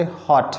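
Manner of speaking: हॉट as one undivided syllable. Shown as a demonstration. Teacher showing it leaves the mouth at once, in one go. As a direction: say हॉट all at once, a single beat. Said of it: "एक बार में निकल गया आपके मुंह से".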